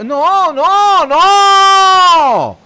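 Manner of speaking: high desperate cry of no; anguished shout. Real, not acted. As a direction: scream it in despair as the chance goes begging. Gegentor droht, Verzweiflung.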